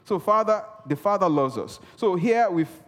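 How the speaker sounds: ordinary talk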